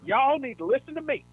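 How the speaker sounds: high, loud locker-room coach shout; angry coach yell. Retold or imitated. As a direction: bark it at the team like a coach. Imitating angry coach at halftime.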